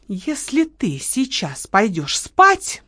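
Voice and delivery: slow ominous warning to her partner. Acted. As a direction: drag the words out menacingly. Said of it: "начала Лола зловеще".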